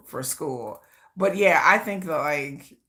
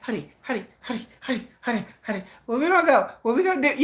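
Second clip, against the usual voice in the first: clingy whiny honeys; 4 semitones higher, faster than usual. Retold or imitated. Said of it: "I'm like".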